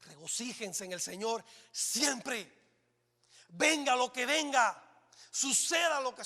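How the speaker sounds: slow, drawn-out preaching with each phrase pressed hard; dramatic emphasis. Acted. Pastor urging congregation to rejoice, slow dramatic emphasis. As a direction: lean into every word like a revival call. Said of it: "¿O estoy muy dramático?".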